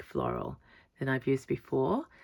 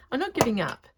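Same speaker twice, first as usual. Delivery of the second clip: higher and louder through giggles; giggly excitement; 9 semitones higher, 7 dB louder, faster than usual. Real, not acted. Showing viewers her overflowing pocket, laughing excitedly. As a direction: squeal it out, tickled.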